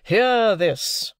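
father exclaiming to the elements; helpless exclamation. A narrator's reading. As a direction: appeal to the heavens. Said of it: "he helplessly exclaimed to the elements".

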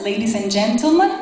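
big rising stage announcement; lucha libre announcer. Acted. Introducing the artist on stage.

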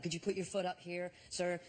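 imitating a courteous officer's request; polite. Airport guard asking the traveller to raise his foot, polite. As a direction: ask it deferentially, very politely. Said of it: "And he was so polite".

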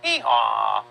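put-on donkey noise for a child; donkey bray. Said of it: "A donkey goes".

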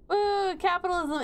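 high, whooping mock hurrah; mock cheer. Mock cheer for profit from destruction.

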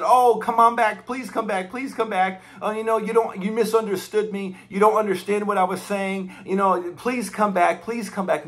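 mocking a pleading Jesus the Bible never describes; mock distraught pleading. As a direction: pretend to plead desperately, half-mocking. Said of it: "Jesus was like, oh, he was so distraught".

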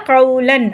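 கவுலன் with a held "aw" glide; sounded w glide. Shown as a demonstration. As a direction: round out the வு in கவுலன், "qaw-lan". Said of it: "இவ்வுன்ற உச்சரிப்பை கொடுக்கணும்".

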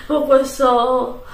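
slow, laughing through the words. Real, not acted. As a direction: laugh while dragging it out. Laughs at own sick voice.

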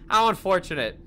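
a hint of flat indifference; lightly voiced bored operator; deadpan operator. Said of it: "the guy on the other end goes".

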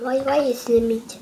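lightly voiced mama asking why; child playing her mother's scolding voice; mimicking mama. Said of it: "Why are you talking like your mama?".

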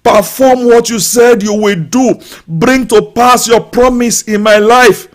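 shouting the prayer up to God; loud, pleading call to God; loud prayer cry. Pretend. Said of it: "crying out loud to God in a loud voice".

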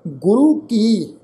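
ਗੁਰੂ ਕੀ drawn out, then a break; slow ਗੁਰੂ ਕੀ closed by a pause; pause after ਕੀ. Shown as a demonstration. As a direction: say ਗੁਰੂ ਕੀ slowly and stop after ਕੀ. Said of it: "ਕੀ ਤੋਂ ਬਾਅਦ ਵਿਸ਼ਰਾਮ ਚਿੰਨ੍ਹ ਲੱਗੇਗਾ ਜੀ".

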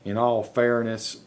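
slow, careful dictation. Shown as a demonstration. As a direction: spell it out for the machine. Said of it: "trying to speak real normal".

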